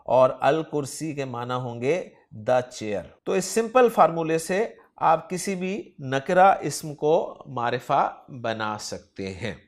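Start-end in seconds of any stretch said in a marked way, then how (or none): none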